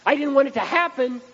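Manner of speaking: mock distress at a pitch well above the own voice; mock crying. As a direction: wail it like a regretful girl, hammed-up. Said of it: "you're gonna be crying and going".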